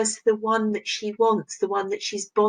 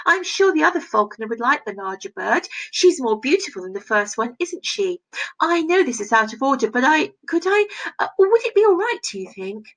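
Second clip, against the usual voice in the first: desperate plea; 3 semitones higher, faster than usual. Acted. Reading a desperate plea aloud.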